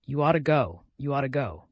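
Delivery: insistent stress on "ought", repeated; merciless emphasis. A narrator's reading. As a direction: hammer "ought" without mercy. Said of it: "with merciless emphasis".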